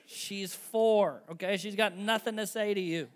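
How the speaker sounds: loud laughing exclamation. Real, not acted. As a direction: laugh it out in disbelief.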